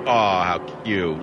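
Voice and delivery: slow drawn-out coo over a photo. Real, not acted. Host looking at a new pet photo, slow tender coo. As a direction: melt at the cute picture.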